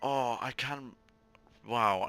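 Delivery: normal talking voice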